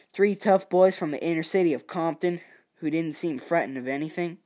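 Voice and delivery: lightly put-on Southern US accent; a hint of a Southern accent. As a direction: read it with a Southern twang. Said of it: "let's just do a southern accent".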